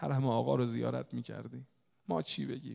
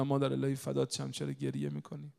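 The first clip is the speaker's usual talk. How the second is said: mild, loving concern; tender retold comforting; 2 semitones higher than usual. Son again comforts crying mother.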